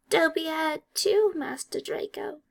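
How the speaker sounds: nervous elf pause; hesitant elf. A narrator's reading. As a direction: falter mid-sentence as the elf. Elf answering.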